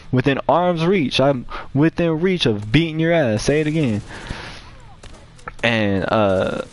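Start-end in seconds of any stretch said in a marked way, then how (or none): 0.1-4.0 retold threat. Retold threat in the same confrontation.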